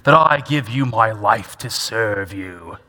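put-on British accent, slowing at the end; mock British accent. Preacher mimicking Paul the Pharisee praying, mock British accent. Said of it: "he probably spoke with a British accent".

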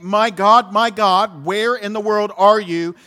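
loud cry of anguish to God. Retold or imitated. Believer in a dark moment crying out to God, loud. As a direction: call out to heaven in pain.

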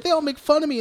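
high-pitched mock self-pity; Pennywise. Host retells the clown luring the girl, mock pitiful. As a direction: put on a pitiful little victim voice. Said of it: "like, fake crying".

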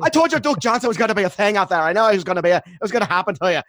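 high, twangy dumb redneck gloat. Acted. Host mocks fans bragging about Duke, redneck accent. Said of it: "either New York or redneck voice".

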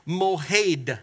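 "mohed" said slowly as two syllables; shown pronunciation. Shown as a demonstration. Preacher teaches congregation a Hebrew word, slow clear pronunciation of "mohed". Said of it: "We pronounce it mohed".

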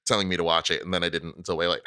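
talking through hiccups. Real, not acted. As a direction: speak with hiccups breaking in. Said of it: "Excuse me, I have the hiccups".

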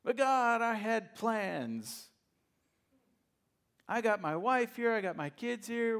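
high, loud, pleading Moses making excuses. Acted. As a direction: beg God like a reluctant man with other plans. Preacher voices Moses' excuses to God.

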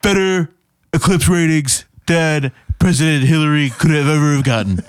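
lightly done Trump, lips pushed out, bragging; a light Trump impression, pushy and boastful; Donald Trump voice. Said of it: "You had a really good lip impression going on".

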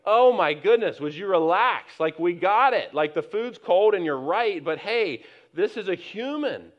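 half-mock "would you relax" at an angry man; exasperated retort. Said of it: "And I am like".

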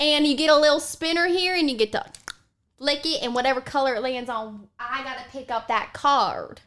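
lightly voiced Southern granny host; Bertha. Granny explains spinner and cards, Southern granny voice. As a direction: lay out the rules as a Southern grandma.

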